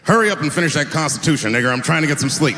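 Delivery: a lightly voiced, hammed-up founding father, fast and loud; founding fathers impression. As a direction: play a grumpy founding father telling him to hurry. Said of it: "This is my impression of the founding fathers".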